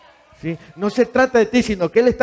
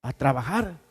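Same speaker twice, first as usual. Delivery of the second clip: brisk self-scolding pep talk, louder and higher; a hint of a stern self-lecture; scolding yourself; 5 semitones higher, 5 dB louder, faster than usual. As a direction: tell yourself off to get up. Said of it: "usted se tiene que decir".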